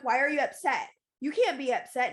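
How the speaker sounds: insistent, lightly acted challenge; mild retold protest. Wife to husband when he was upset, mildly insistent protest. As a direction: replay an argument, pushing back a little.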